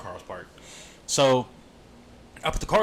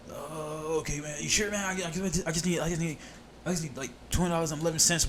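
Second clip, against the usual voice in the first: higher-pitched pleading, imitating a panhandler; 4 semitones higher than usual. Panhandler asking couple for money, imitated higher-pitched pleading. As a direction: lightly mimic a man begging for small change.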